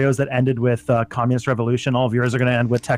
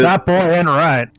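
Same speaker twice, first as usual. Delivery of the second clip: slow, drawled Texan line; slow Texan drawl, mock Hank; King of the Hill quote; 3 semitones higher, 4 dB louder, slower than usual. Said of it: "every episode of King of the Hill".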